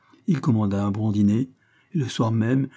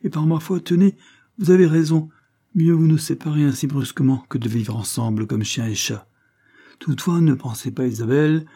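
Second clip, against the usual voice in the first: higher, louder, offhand agreement settling slightly; airy Levison; 6 semitones higher, 4 dB louder than usual. A narrator's reading. Levison agrees to part from Isabelle, airily. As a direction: concede the break lightly.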